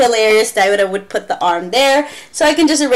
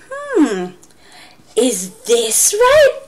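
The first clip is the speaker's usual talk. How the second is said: slow, drawn-out teasing ask; mock-doubtful teacher; playful question; much slower than usual. Shown as a demonstration. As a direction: tease the class. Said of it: "I would say".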